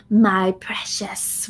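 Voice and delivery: slow, a hint of rasp; lightly voiced Gollum petting his ring. Shown as a demonstration. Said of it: "with this kind of raspy voice".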